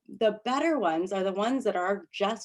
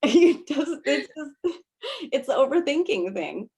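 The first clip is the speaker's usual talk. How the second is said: mock enroller; 7 semitones higher, 4 dB louder than usual. Enroller voiced reassuring.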